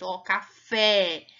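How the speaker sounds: café with a wide open é; café, é aberto e lento; open vowel demo. Shown as a demonstration. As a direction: stretch café slowly, open é. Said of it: "eu falo pra baixo".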